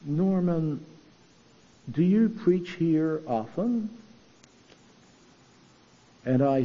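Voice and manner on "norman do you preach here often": a hint of a soft Inverness-shire Scottish accent; lightly imitating a quiet Scottish lady. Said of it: "in her usual very quiet Inverness-shire Scottish accent".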